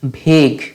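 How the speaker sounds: ভেগ said as one short syllable "veg"; correct pronunciation. Shown as a demonstration. Teacher giving the right sound for ভেগ. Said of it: "এই শব্দটার উচ্চারণ হচ্ছে ভেগ".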